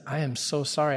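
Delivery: soft, subdued apology; low and slow. Retold or imitated. Husband apologizing to his wife, low and slow. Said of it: "I started speaking more low and slow".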